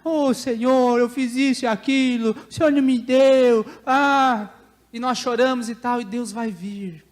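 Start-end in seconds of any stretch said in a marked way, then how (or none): 0.0-4.5 raised-pitch whining complaint to God; mock crying. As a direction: imitate a tearful, kicking protest. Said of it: "pode chorar, pode espernear".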